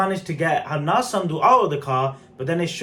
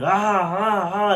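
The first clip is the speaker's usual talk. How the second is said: drawn-out, half-hearted imitation screams; mock scream; 3 semitones higher, slower than usual. Reviewer mimicking an actor who screams every scene, mock screaming. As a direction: imitate an actor's overdone screaming, without full volume. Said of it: "without him constantly screaming".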